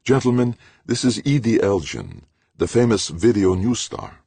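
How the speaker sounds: formal introduction voice; introducing. A narrator's reading. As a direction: announce her grandly. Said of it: "enough to introduce".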